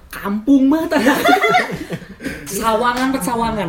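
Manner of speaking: high-pitched, cracking up mid-sentence; laughing hard between the words; teasing laughter. Real, not acted. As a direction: tease through bursts of laughter.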